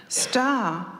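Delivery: high, worried rush of words; frantic lover on the phone. Acted.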